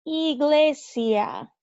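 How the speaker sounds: iglesia drawn out slowly, ee-GLEH-sya; slow Spanish word. Shown as a demonstration. Teacher slowly modeling iglesia for learners. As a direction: stretch iglesia out syllable by syllable.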